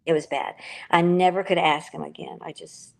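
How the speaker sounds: choked up, voice breaking; fighting back tears; crying. Real, not acted. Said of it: "I'm sorry, I'm crying".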